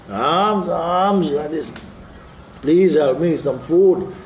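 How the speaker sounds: high, pleading beggar's cry; begging widow. Retold or imitated. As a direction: plead for alms like a poor widow.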